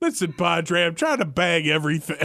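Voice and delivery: put-on old taxi driver voice. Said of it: "you just talk like an old taxi driver".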